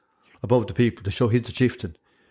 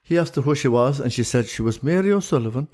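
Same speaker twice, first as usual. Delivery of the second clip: lilting Irish storyteller. Pretend. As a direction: tell it like an old Shanachie. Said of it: "give us a good old yarn that a Shanachie would".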